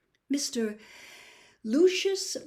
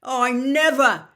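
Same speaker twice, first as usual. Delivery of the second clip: loud pleading cry, much louder; imploring; 4 semitones higher, 13 dB louder than usual. Acted. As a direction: beg Dumbledore with everything. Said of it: "looking imploringly".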